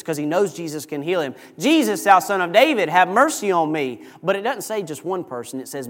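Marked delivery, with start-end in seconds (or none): 1.6-4.0 slightly higher, mildly raised plea; acted cry for help. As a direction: call out insistently for mercy. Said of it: "as you're crying".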